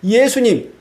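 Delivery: high-pitched, put-out mock protest; complaining Pharisees. Pharisees complain to Jesus about the cheering crowd, high mock protest. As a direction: voice indignant bystanders, pitched well up. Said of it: "옆에 있던 바리새인들이".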